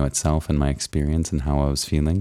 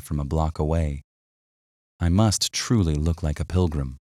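gentle, unhurried bedtime reading; sleep story narrator; 3 semitones higher than usual. Acted. Reads journal aloud as sleep story.

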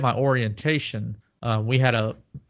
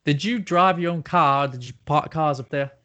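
put-on making fun of the Boston accent; put-on Boston accent, teasing question; mock Boston accent; 3 semitones higher than usual. Teasing co-host about parking cars, mock Boston accent. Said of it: "making fun of the accent".

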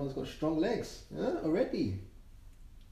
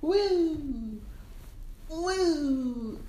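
excited cheering; 8 semitones higher than usual. Real, not acted. Cheering again with baby.

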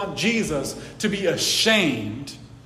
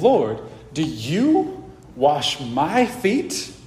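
indignant; much slower than usual. Acted. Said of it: "can you hear the indignance in Peter's voice".

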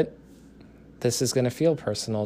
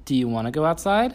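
quick, higher excited question; 5 semitones higher, 3 dB louder, faster than usual. Real, not acted. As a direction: excite the little one.

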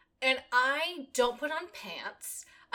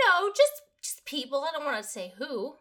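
higher, evasive manager voice; retold manager; 5 semitones higher, 5 dB louder than usual. Manager won't tell employee who complained, lightly voiced manager. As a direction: lightly mimic a manager dodging the question. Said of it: "She said".

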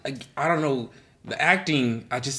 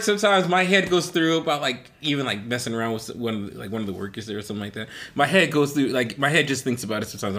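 ordinary talk

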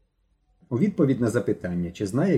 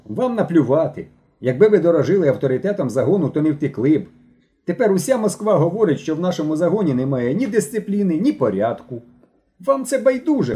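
scolding lecture; 5 semitones higher than usual. Acted. Mishko scolds runaway boys.

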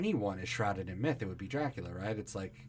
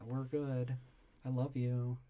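mock cooing reassurance; 5 dB quieter than usual.

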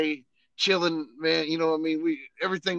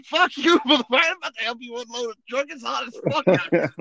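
higher, louder mock cussing; mock-annoyed, higher and louder; annoyed inner retort; 8 semitones higher, 6 dB louder than usual. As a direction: grumble it like you're fed up. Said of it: "I'm thinking".

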